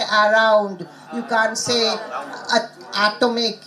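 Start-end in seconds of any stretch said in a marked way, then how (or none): 0.0-0.9 "around" with a full "ah" at the start; unreduced first vowel. Shown as a demonstration. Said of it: "which syllables are not stressed". 1.9-3.6 "atomic" begun with a full, weighted A; unreduced first vowel. Shown as a demonstration.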